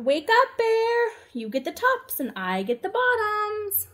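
loud, high wake-up call. Acted. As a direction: shout to rouse him. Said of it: "Hare called out".

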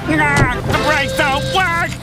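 drawn-out cry of alarm. Acted. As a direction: cry it out slowly in panic. Driver finds brakes have failed.

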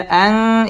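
"আং" hummed through the nose; ikhfa ghunnah. Shown as a demonstration. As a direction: hold the nasal of "আং". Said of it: "ইকফা গুন্নাহ করে পড়তে হবে".

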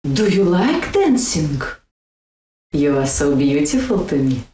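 dental Russian D and T; Russian accent demo. Shown as a demonstration. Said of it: "touch your lower teeth with the tongue".

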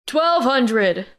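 shouted. A narrator's reading. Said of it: "another man shouted".

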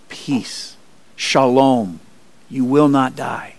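soft, low and soothing; calm someone frightened, hushed at first; gentle reassurance. Acted. God reassures frightened Gideon he will live, gently.

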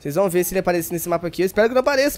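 normal talking voice

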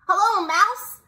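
high, loud sing-out greeting; cheery high-pitched character hello; Duck. Acted. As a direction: call out hello in a high storybook voice. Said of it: "said Duck".

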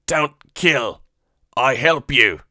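high, loud broken pleading; frightened Weequay. Acted. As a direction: beg like a cornered alien. Captive Weequay begging for life.

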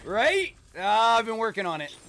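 very high, loud American caricature; exaggerated American accent. Canadian gamer thanking teammate for approving his exaggerated American accent. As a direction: crow it proudly in a put-on American voice. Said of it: "That sounds pretty accurate".

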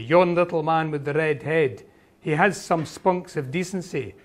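lightly voiced Highland Scots lilt; Highland Scots Alan. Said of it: "you can hear the Gaelic intonations".

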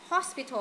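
"Hospital" with weight on HOS; stress on first syllable. Shown as a demonstration. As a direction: lean on the start of Hospital. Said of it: "âm đầu luôn".

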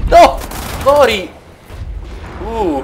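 sudden high yell; shouting. Real, not acted. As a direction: yell in the heat of the fight. Combat outburst.

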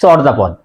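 চর্যাপদ said with open o, chawr-japod; common mispronunciation. Shown as a demonstration. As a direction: open first vowel in চর্যাপদ. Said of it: "আমরা অনেকেই বলি".

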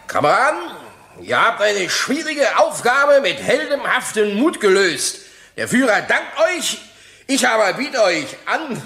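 hamming up a Nazi official's address; imitating Greiser's speech. Witness mimics Greiser's speech to the court, mock pompous. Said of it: "wie sagte er das genau".

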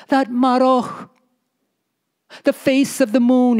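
a storyteller voicing a poor, pleading wife. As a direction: plead with your husband about being poor.

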